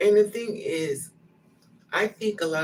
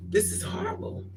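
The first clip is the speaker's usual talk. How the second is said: squeaky whispered lament; high breathy squeak. Retold or imitated. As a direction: squeak it out in despair. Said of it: "I was like".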